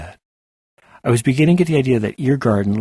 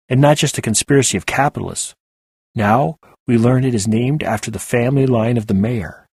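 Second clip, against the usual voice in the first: put-on North Shore accent; 3 semitones higher, 4 dB louder than usual. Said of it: "a man's voice with hints of a North Shore accent".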